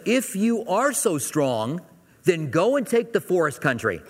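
a hint of an exasperated dad; stern dad. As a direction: challenge them like a fed-up father. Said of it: "kind of responds like a dad".

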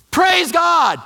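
loud high joyful shout of praise; shouted hallelujah of relief; excited praise. Retold or imitated. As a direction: burst out thankfully after hurting your toe. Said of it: "And he's all excited".

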